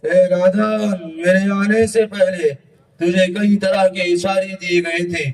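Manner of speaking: stern, measured summons; angel of death. Acted. Angel of death summoning a careless young man, stern. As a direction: pronounce judgment on a foolish mortal.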